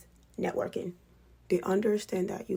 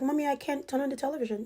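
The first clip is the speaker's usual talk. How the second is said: put-on child's whine; 7 semitones higher, faster than usual. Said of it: "She's like".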